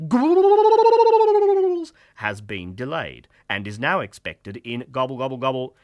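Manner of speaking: high, slow, stretched station-PA voice; drawn out high like a broken PA; squeaky garbled announcement. Acted.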